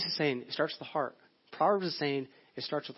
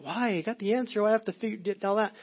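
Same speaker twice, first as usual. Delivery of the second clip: higher-pitched mock whine of a protesting kid; complaining kid; 5 semitones higher than usual. Preacher imitating kids objecting to schoolwork, mock complaining. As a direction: imitate a child griping about homework. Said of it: "it's like our kids are like".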